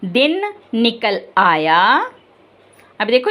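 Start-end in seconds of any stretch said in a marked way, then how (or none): 0.0-1.8 put-on दिन निकल आया spoken slowly, word by word, for children to repeat; slow read-along. Shown as a demonstration. Teacher leading the class to read the title together. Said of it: "चलिए पढ़ें।".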